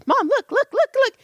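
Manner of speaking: put-on high, nagging child's whine; mock child pestering mom; whiny kid. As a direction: whine it like a kid begging for attention. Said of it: "they're always like".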